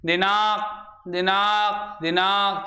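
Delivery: दिनांक slowly repeated, the nasal sound drawn out; nasal demo. Shown as a demonstration. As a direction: say दिनांक with the sound going through the nose. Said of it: "मुख के आगे हाथ रखो". (दिनांक को नाक से निकलती ध्वनि के साथ बोलें)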